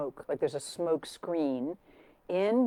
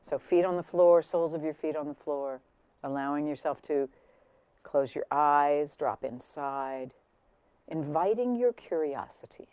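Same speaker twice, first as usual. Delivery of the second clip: guided meditation. Real, not acted. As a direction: ease listeners inside, fading toward a hushed close. Begins guided breathing meditation.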